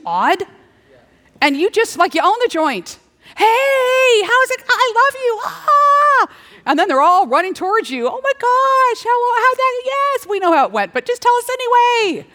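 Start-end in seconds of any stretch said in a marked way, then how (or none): 3.4-6.3 very high, loud gushing greeting; joyful welcome. Acted. Heaven's crowd greeting you with squealing delight. 8.1-12.3 very high, gushing chatter; eager crowd. Acted. Heaven's crowd begging for your story, squealing high.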